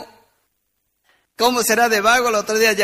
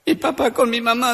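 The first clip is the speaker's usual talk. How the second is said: higher-pitched, lightly mimicked crying child; mock-tearful child voice; tearful little girl; 4 semitones higher than usual. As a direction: play a little girl whimpering through her words. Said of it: "Estaba una chiquita llorando en la plaza".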